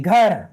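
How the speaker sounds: घर with a clearly aspirated gh. Shown as a demonstration. Teacher models घर with a clear gh for pupils. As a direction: say घर with a breathy gh sound. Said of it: "आवाज़ आनी चाहिए".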